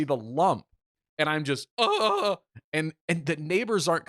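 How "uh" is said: high, drawn-out mock groan; imitated pained groan. Stuck in the washer in pain, high mock groan. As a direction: act out a helpless high wail.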